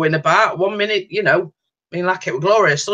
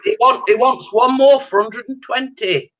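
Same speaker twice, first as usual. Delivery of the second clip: excited; 6 semitones higher than usual. Real, not acted. Excited subscriber count news.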